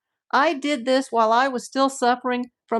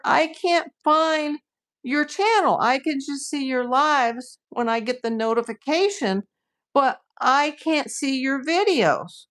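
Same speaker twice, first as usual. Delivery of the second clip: complaining viewer; 4 semitones higher than usual. Retold or imitated. Imitates a complaining confused viewer.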